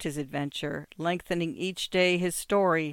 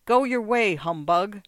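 angry cry; 3 semitones higher, 7 dB louder than usual. A narrator's reading. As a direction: cry it out forcefully in someone's face. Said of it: "cried in his face".

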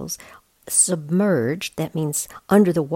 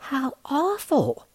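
small high cub voice, slow; young bear sighing at the cruelty; lightly voiced bear cub dismayed; little bear cub Lars; 9 semitones higher, slower than usual. A narrator's reading. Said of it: "said Lars".

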